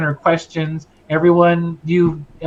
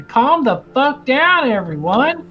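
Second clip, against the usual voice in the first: angry captain yell; 9 semitones higher than usual. Acted. Captain snaps at unruly crowd.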